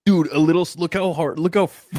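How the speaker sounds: high, loud excited disbelief. Real, not acted. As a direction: shout it out in shock. Watching slap replay.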